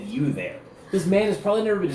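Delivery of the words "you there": offended mimicry. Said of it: "the insult slap across his face".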